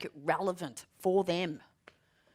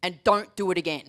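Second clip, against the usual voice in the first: stern telling-off; 4 dB louder than usual. Retold or imitated. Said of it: "turned around and said".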